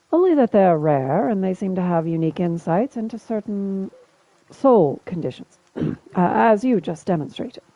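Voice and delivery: light, half-faked British accent as a concerned traveler; Alof's semi-British accent. Alof asking Tamlin if she is alright, semi-fake British accent. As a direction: ask after her in a shaky attempt at British. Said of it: "I'm attempting Alof's accent".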